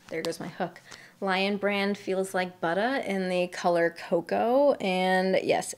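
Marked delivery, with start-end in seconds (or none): 2.0-3.0 BUTTER said as "buttah"; r-less butter. Real, not acted. Reading out the yarn's brand name, BUTTER pronounced "buttah". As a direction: drop the final r in BUTTER, ending on "uh". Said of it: "That's not me with a Boston accent".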